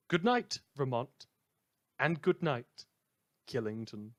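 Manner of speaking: cheery on-air goodbye; radio sign-off. Acted. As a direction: send the listeners off with a flourish. Radio host's second sign-off.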